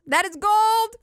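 mock triumphant gold; loud proud shout.

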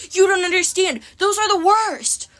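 high, loud frantic protest; screamed. A narrator's reading. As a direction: shriek a frantic warning, dragging the last words. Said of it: "Hersey screamed".

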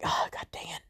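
soft, under-the-breath mild curse; low-volume self-annoyed aside; muttered exasperation. Retold or imitated. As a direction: grumble it quietly to yourself. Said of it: "I'm just like".

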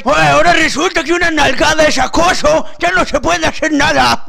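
outraged viejito griping about values; indignant old man. Acted. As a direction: complain like an offended old creep. Old man defending harassment.

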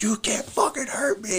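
high, whispered taunt; mock taunt. Cop imitating the attacker's high-pitched taunt. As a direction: taunt like a man high on PCP. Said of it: "Rips his fucking shirt off".

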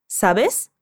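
Sabes? with a clear hissed S at the end; final S sounded. Shown as a demonstration. Teacher stressing the final S for the student. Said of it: "pronunciar o S no final".

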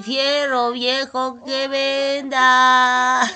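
slow drawn-out street vendor call; crackly looped vendor recording. Pretend. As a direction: call out like a scrap buyer. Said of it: "Estoy jugando al ropavejero".

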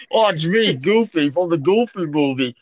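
a hammed-up cartoon character voice; Goofy. Claiming to be Goofy on the call, unconvincing Goofy voice. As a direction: introduce yourself as a dopey cartoon dog. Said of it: "don't think that's Goofy".

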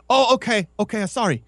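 high, put-on sorry voice; mock sheepish apology. The speaker apologising to his friend, high sheepish mock voice. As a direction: apologise like a scolded kid.

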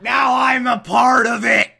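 high, loud cry of comic dismay; laughing mock horror. Real, not acted. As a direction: yell it, caught by your own words. Horrified at own word choice.

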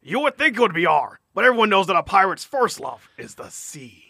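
lightly voiced joking pirate; a hint of a hammy pirate. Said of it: "so I get my pirate voice on".

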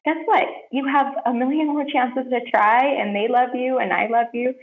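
Christ gently encouraging her after a mistake, tender. Retold or imitated. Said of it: "just encouraging me gently".

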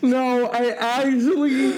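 high giggly voice; laughing. Real, not acted. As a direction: still laughing. Both laughing uncontrollably.

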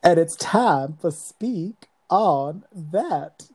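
holding back a laugh; fighting off giggles while announcing; stifled giggles. Real, not acted. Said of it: "trying not to laugh".

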